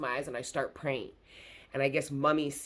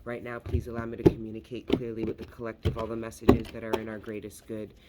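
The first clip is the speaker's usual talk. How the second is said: earnest, steady opening prayer; a devotional invocation, rushed in places; 3 semitones lower, faster than usual. Acted. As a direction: call on the ancestors with reverence. Opening prayer to the Most High.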